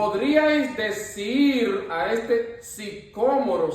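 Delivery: slow, careful "sicómoro" with the stress on the O; careful reading. Shown as a demonstration. Rereading the verse for the group, slow and careful on "sicómoro". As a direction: read "Podríais decir a este sicómoro" slowly, stressing the O of "sicómoro". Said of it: "sí, así está bien".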